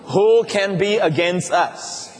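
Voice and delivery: slow, weighty reading of the verse; solemn scripture reading. Acted. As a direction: let each word land, slowly. Reads the key verse slowly.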